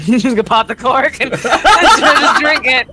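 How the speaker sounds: laughing through the words. Real, not acted. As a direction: giggle through it. Laughing while telling it.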